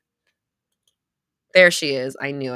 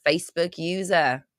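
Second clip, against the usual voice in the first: amateur New Zealand accent. Shown as a demonstration. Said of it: "That's my New Zealand accent".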